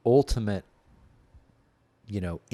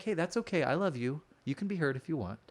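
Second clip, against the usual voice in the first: gentle reassurance; 3 semitones higher, 4 dB quieter than usual. Retold or imitated. Reassuring his inner hurt self.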